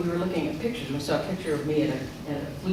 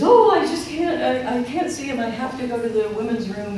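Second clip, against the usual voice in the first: mom's tearful voice; 7 semitones higher, 5 dB louder than usual. Retold or imitated. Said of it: "she says".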